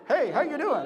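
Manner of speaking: light comic impression with a laugh; Jerry Seinfeld. Host mimicking what the goat sounded like, comedian impression. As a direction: imitate a sitcom comedian's greeting. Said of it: "it sounds like Jerry Seinfeld".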